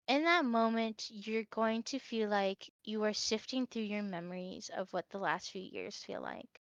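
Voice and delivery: normal talking voice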